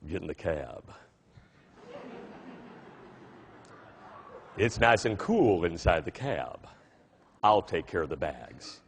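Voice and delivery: very low, slow Texas cabbie voice; deep Texan voice. Retold or imitated. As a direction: drop way down into a Texas cab driver. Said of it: "he says in this deep Texan accented voice".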